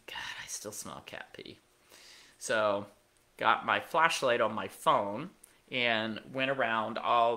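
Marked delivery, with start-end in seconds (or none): 0.1-1.6 unvoiced, hushed complaint; whisper. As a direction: breathe it out under your breath. Retelling her own muttered complaint.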